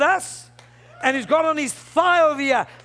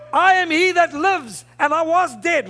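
declaiming scripture; 3 semitones higher than usual. Acted. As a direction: proclaim it with a raised, punched "I".

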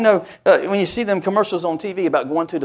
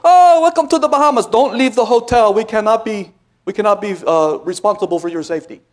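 cheery hotel clerk. Retold or imitated. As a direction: play the overly cheerful hotel desk. Hotel staff greeting, mocked.

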